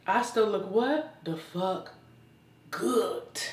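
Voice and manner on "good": "good" ending on a crisp T. Real, not acted. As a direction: finish "good" with a hard, released T. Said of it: "with a T".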